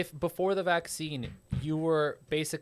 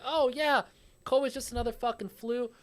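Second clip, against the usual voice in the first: put-on southern accent; 8 semitones higher than usual. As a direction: play a dismissive Southern yokel. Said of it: "use my southern accent again".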